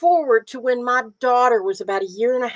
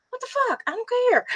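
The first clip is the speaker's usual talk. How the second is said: exasperated outburst; 13 semitones higher, 6 dB quieter, much faster than usual. Retold or imitated. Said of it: "and I'm like".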